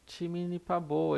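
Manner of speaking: "timini pabo" said slowly, syllable by syllable; Korean word demo. Shown as a demonstration. Teacher modelling Korean for students, slow and clear. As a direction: sound out "timini pabo" carefully. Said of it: "a falarem timini pabo em coreano".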